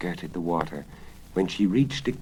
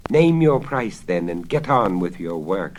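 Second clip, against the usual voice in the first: loud, impatient royal shout; 2 semitones higher, 9 dB louder than usual. Acted. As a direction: bark the order angrily. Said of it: "shouted the king".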